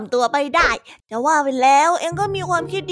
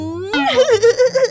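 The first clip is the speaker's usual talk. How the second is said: high teasing laugh; 7 semitones higher, 5 dB louder than usual. Acted. Teasing "master Singh.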